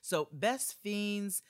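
upbeat sponsor read, selling the game. Acted. Host reading an ad to listeners, upbeat sales voice. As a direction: pitch the puzzle game like a commercial.

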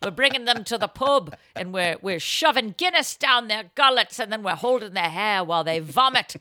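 lightly faked Irish lilt; bad Irish accent. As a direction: attempt an Irish accent badly. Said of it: "Even that is a bad accent".

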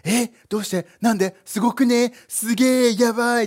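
軽くうろたえた驚きの声を演じる; 驚いて問いを畳みかけるふり; 驚きの演技. Acted. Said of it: "議員たちは驚きました". (少し大げさに、たじたじと驚いて)

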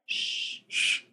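unvoiced shh then whispered sorry; hushing whisper. Real, not acted. Hushing her son mid-interview.

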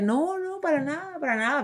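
acting tough. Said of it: "según yo haciéndome la fuerte".

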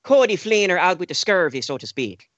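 put-on joking Irish accent; light Irish brogue. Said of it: "He doesn't have the Irish accent".

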